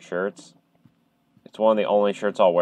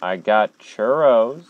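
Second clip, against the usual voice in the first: slow, louder, sing-song bait; teasing lure; 2 semitones higher, 6 dB louder, slower than usual. Real, not acted. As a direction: tempt them out playfully. Luring whoever is there.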